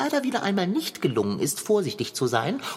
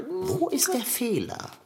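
whisper; 8 semitones higher, 4 dB quieter than usual. Acted. Puzzled cat whispers to himself.

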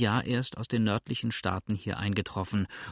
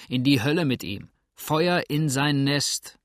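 snarling curse; 4 semitones higher, 4 dB louder than usual. Acted. Ruffian curses innkeeper.

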